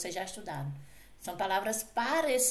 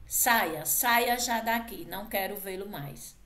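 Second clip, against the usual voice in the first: mock angry order; 4 dB louder than usual. Shown as a demonstration.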